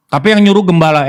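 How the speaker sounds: a preacher's loud indignation; indignant outburst. Acted. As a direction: push it out loud in outrage.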